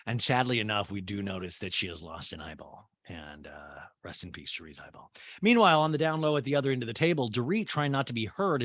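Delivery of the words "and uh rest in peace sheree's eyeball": whispered mock eulogy. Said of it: "mock mourning".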